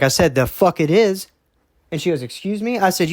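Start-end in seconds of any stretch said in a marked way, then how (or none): 0.3-1.3 a raised, defiant retort, higher; angry retort. Retold or imitated. Retelling how he refused his boss, raised and defiant. 2.2-2.8 high, mock offended excuse me; indignant boss. The boss taken aback by his refusal, high and mock offended. Boss's retold indignant reply.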